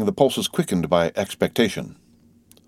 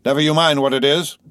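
higher, raised-voice retort; sharp retort; 7 semitones higher, 4 dB louder than usual. A narrator's reading. Guard rebuffing the voice in the mist, retorting. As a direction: fling it back defiantly. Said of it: "the guard retorted".

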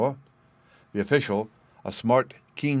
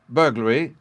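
cry out; 4 dB louder than usual. Acted. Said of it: "cried the Colonel".

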